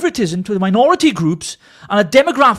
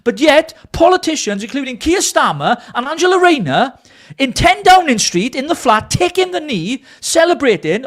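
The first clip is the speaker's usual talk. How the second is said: angry rant; 3 semitones higher than usual. Real, not acted. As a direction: let the fury pour out in a rising tirade. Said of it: "Sorry, guys, I'm ranting here, but I'm so angry".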